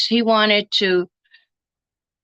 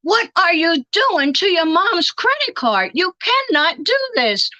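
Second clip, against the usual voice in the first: higher, scolding the grandson over the credit card; scolding grandma; 8 semitones higher than usual. Retold or imitated. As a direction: go off on him like an angry grandma. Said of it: "I went off on him".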